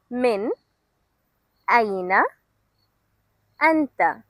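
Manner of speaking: slow, careful model for repeating; slow demo. Shown as a demonstration. Teacher to students, slowly modelling the question. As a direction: say it slowly so learners can follow. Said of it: "I will say it slowly this time".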